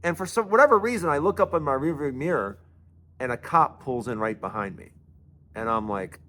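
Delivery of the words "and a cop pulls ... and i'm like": ordinary delivery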